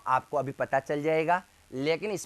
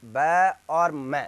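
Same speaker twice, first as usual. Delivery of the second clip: ब और म stretched very slowly; slow recital; much slower than usual. Shown as a demonstration. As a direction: draw the letters out for the class. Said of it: "recitation of letters". (धीरे धीरे वर्ण बोलना)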